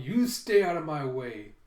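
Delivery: loud, moderately forceful warning; mock shout. Boy warning his tablemate off, mock shout. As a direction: shout it without raising the pitch. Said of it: "he shouts at Anya".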